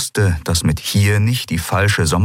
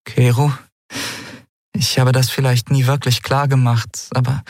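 higher, earnest plea; earnest young woman; 7 semitones higher than usual. Acted. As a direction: reach out to him. Andriel starts confession.

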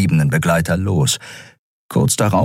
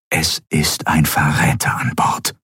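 whispered thought; 2 semitones lower than usual. Acted. Admiral's inner thought again.

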